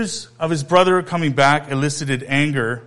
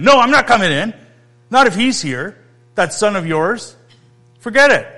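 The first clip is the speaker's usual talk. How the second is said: raised, high, indignant outburst; angry refusal; 5 semitones higher, 6 dB louder than usual. Acted. Older son shouting at his father he won't come in. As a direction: spit out the refusal like a sulking son.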